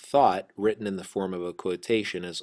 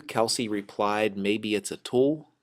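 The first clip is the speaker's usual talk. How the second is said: slow careful reading; 2 semitones higher, 4 dB louder than usual. Shown as a demonstration. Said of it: "So it'd be Kelsey replied".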